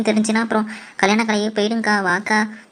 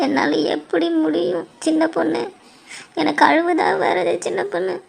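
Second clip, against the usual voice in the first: near tears; 5 semitones higher than usual. Acted. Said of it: "அக்கா, அழுவாத".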